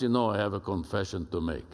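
lightly imitated deep Spanish-accented voice; Pablo's deep Spanish accent. Ambassador confessing to his breakfast group, lightly imitated deep Spanish accent. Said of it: "deep Spanish accented voice like this".

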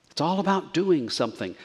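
doing pushed, brisk line; stress on doing. Shown as a demonstration. Preacher stressing to congregation, stress on doing. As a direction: hit the word doing. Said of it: "I want to emphasize that word doing".

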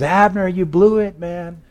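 high-pitched shouted reproach; calling out a taunt. Acted. David scolding the commander from afar, high called-out taunt. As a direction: scold someone across a distance.

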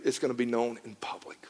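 low ominous whisper; soft unvoiced warning. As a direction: hush it like a dire secret. God warning David, whispered.

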